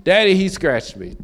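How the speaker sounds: lightly voiced whining children; a hint of kids calling for dad; whiny kids. Children calling their father with every problem, mild whine. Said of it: "they cry out when problems arise".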